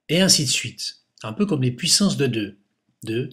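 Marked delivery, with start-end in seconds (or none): 3.0-3.3 counting softer and softer; quiet fading count. Real, not acted. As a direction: let the numbers fade away. Counting powers of two, trailing off.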